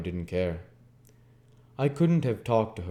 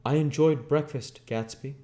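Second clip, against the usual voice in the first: calling out; 7 semitones higher, 4 dB louder than usual. A narrator's reading. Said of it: "I called".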